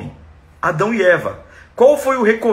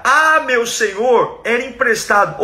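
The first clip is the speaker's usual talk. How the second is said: earnest cry; 4 semitones higher than usual. Acted. The boy crying to God, earnest raised plea. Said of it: "ele grita".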